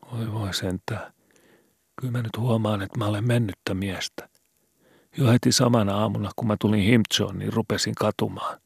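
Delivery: put-on a scared boy asking in the dark; worried boy Skobe. A narrator's reading. Skobe despairing, higher. (huolestunut poika)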